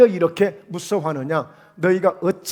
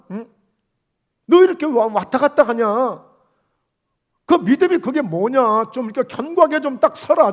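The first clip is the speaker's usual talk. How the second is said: a touch louder, chiding rebuke to wavering followers; Jesus rebuking fearful disciples, firmly chiding; Jesus scolding disciples; 3 semitones higher, 4 dB louder than usual. Acted. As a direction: scold them like a disappointed teacher.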